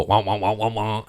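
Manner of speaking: babyish mock wah-wah crying. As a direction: whine like a toddler. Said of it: "And then I'll go".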